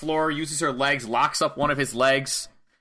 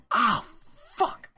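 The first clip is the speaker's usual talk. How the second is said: mock pained high "oh" then a weak curse; hammed-up hurt groan; 9 semitones higher than usual. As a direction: imitate nursing a hurt hand. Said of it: "she's, like, holding her hand".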